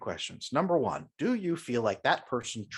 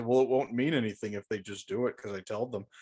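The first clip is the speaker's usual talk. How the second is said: mocking quote; 2 semitones lower than usual. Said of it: "People always say".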